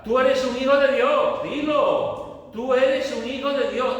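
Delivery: high, loud proclamation. Shown as a demonstration. Preacher showing how to say it, loud and high. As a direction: declare it so everyone hears. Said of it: "Esto hay que decirlo en voz alta".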